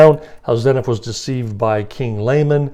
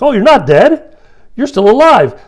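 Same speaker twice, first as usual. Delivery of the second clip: high, loud, hammed-up delighted surprise; happy disbelief; 10 semitones higher, 8 dB louder than usual. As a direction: act out joyful relief, pitched way up. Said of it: "now he's pretty happy 'cause he's like".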